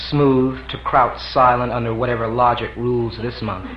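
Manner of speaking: measured literary reading of a preface; reading a novel aloud. A narrator's reading. Author reading his preface to listeners, measured.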